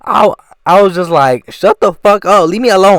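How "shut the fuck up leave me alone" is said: a slightly raised, fed-up retort, lightly exaggerated; hamming up the comeback to the chatty classmate; mock angry snap. Nine-year-old snapping at the classmate who won't stop talking, mildly raised. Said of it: "I didn't say it like that".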